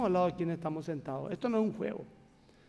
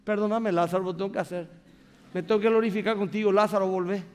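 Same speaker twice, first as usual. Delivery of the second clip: tender apology. Retold or imitated. Jesus apologizes to Lazarus.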